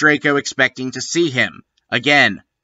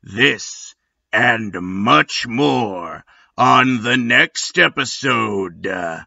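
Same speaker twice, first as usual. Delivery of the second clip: gravelly trailer voice. Acted. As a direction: rasp it like a hyped trailer guy. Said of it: "let Gravelly Voice Guy get you guys hyped".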